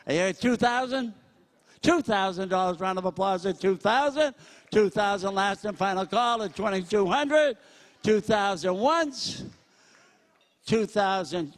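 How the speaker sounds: brisk, punchy auctioneer chant, pitch up; auctioneer bid calling. Acted. Auctioneer working the crowd at a school charity, brisk bid calling. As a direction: sell it to the room, count the bids out.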